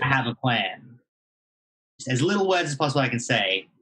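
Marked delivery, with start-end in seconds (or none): 0.0-1.0 whispering in character voice. Playing a character whispering to Lillian to get away: whispering in character. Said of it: "I'm gonna whisper to Lillian".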